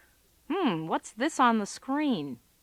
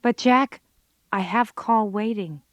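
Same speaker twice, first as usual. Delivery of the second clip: louder, pointed objection; exasperated retort; 5 dB louder than usual. Real, not acted. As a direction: call out his lame excuse. Picking apart a boyfriend's excuse.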